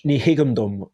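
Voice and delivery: Ní higamdum with stress on Ní, falling; Irish phrase. Shown as a demonstration. Tracing you dig to Irish, Irish pronunciation. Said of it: "comes from the Irish".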